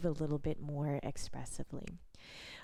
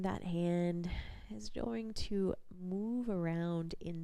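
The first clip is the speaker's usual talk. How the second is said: guided body scan. Real, not acted. Instructor leading a lying-down body scan, calm guided practice voice. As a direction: guide gently with long pauses between instructions.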